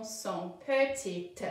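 son petite said slowly with the final T; slow down and land the T of petite; slow model. Shown as a demonstration. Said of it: "aide le T à dire son".

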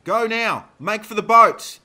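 very high, loud urgent shout; yelled order. A narrator's reading. Dana sends the riders fleeing from the horde, yelled. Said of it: "Dana yelled".

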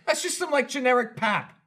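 high, lightly British Gavin voice; Gavin impression. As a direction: lightly mimic a British friend. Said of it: "He's like".

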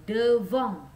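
loud "Devant" with nasal end; stern model word; emphatic devant. Shown as a demonstration. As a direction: stress the nasal ending. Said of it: "Perhatikan baik-baik".

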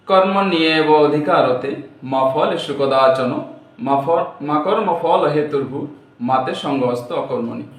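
slow, measured Sanskrit chant; shloka recitation. Acted. Teacher reciting the Gita verse slowly to students.

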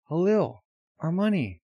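high, loud calling out; acted alarmed shout. Boy shouting to Halil over dropped money, alarmed. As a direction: yell after someone running.

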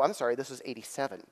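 ordinary delivery

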